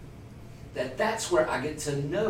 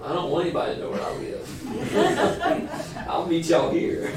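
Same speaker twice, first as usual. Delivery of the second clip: laughing; 2 semitones higher than usual. Real, not acted. Confessing she hides her home.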